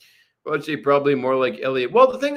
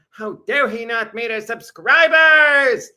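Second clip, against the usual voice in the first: mock indignant fan; 6 semitones higher, 7 dB louder, slower than usual. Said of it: "people said".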